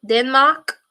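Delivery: Denmark in an odd put-on accent; weird accent. Real, not acted. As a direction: slip into a weird foreign-sounding accent. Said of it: "I just put on a weird accent there".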